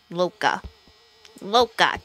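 "Luca" as "Loo-ka" with a round Italian o, falling; mock Italian calling out "Luca"; Italian accent. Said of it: "I like saying Luca in an Italian accent".

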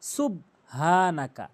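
"সুবহানাকা" with a closed "sub", no vowel after the b; mistaken pronunciation. Shown as a demonstration. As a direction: run "সুব" shut into a plain h in "সুবহানাকা". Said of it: "এক number ভুল".

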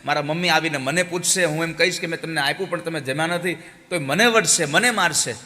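put-on a frightened boy begging god to eat; begging child. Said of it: "છોકરો ખૂબ ભગવાનને કરગરે છે". (ભગવાનને કરગરતો બાળક, વધતા ઊંચા અવાજે)

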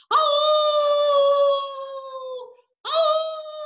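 very high loud howling cry; wolf howl. Acted. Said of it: "give me your best wolf howl".

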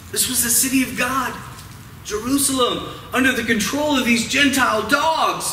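lightly acted indignant disbelief; mild indignation. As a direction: protest it with a touch of outrage. Voices Jews' outrage at occupation.

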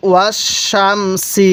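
ওয়াস শাম সি with heavy "sh" in শাম, fine "s" in সি; thick shin, thin sin. Shown as a demonstration. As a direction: recite ওয়াস শাম সি syllable by syllable, contrasting sh and s. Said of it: "কীভাবে উচ্চারণ করছি?".

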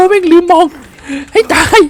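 sudden high, loud yelp; startled cry. Real, not acted. Player hurt by a hidden floor trap, startled yelp.

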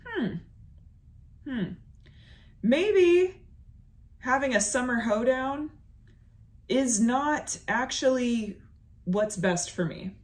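a hint of a mock self-realization; imitating herself thinking. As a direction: ponder it aloud in a put-on reflective voice. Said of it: "the second you go".

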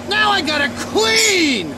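fed-up shout across the room; angry shout. Acted. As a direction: yell it out in annoyance. Shouting at Slender Man.

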